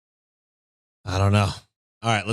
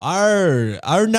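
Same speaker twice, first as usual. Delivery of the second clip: bad Australian accent pitched higher; 8 semitones higher, 4 dB louder, much slower than usual. The speaker plays the brother on request in a mock Australian accent. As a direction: ham up a fake Australian accent. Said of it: "in an Australian accent?".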